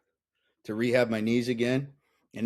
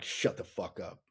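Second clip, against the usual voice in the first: softer, breathy laughing line; laughing retort; 6 semitones lower, 11 dB quieter than usual. Retold or imitated. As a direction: laugh it off as you dismiss them. Retold retort, laughing through it.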